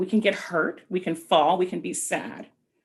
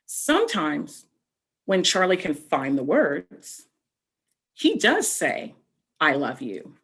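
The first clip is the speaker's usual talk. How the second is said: put-on slow, gentle read-aloud to children; storybook reading. A narrator's reading. Teacher reading a picture book to young children, slow gentle storybook narration.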